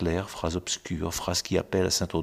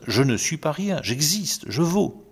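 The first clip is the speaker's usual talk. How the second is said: defiant retort; 6 semitones higher than usual. Acted. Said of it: "lancent à qui les méprise".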